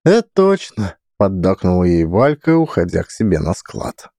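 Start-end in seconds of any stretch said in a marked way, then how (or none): 0.0-1.0 high agreeing voice. Acted. Valka agrees.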